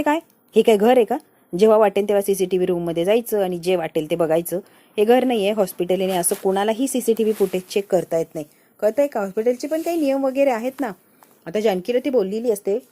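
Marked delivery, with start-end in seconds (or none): 0.0-10.9 loud, stern telling-off; scolding nurse. Acted. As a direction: bark the hospital rules at them. Nurse scolds Janaki, acted quote.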